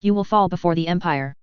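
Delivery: lightly done fake German accent; a hint of hammy German. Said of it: "obviously fake German accent".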